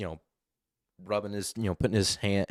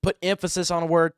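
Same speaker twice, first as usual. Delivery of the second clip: louder and higher to demonstrate emphasis; raised voice; 9 semitones higher, 8 dB louder than usual. Shown as a demonstration. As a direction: raise your voice and punch it. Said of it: "we all raise our voice".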